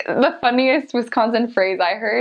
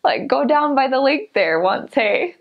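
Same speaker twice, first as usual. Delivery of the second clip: Wisconsin accent; 4 semitones higher than usual. Shown as a demonstration. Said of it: "use that accent".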